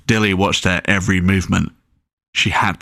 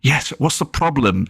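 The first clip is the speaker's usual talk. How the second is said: impatient; 6 semitones higher than usual. Acted. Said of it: "she said impatiently".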